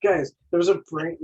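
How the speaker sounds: lightly acted cartoon alarm, retold; Mikey freaking out. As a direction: imitate a cartoon turtle's mild panic. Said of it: "freaking out 'cause he finds it".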